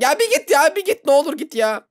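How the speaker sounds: high, loud begging; exasperated pleading. Real, not acted. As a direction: plead with it to leave. Begging the pursuer to go away.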